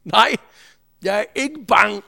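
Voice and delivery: a loud, sure refusal of fear; resolute no. Retold or imitated. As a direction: say it flat-out, no doubt at all. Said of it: "så svarer Inger resolut".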